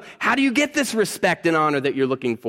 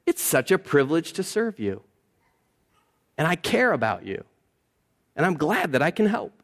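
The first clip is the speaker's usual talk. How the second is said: soft, gentle offer of help; humble, caring tone; 3 dB quieter than usual. Pretend. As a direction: say it softly, as a privilege to serve. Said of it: "that says".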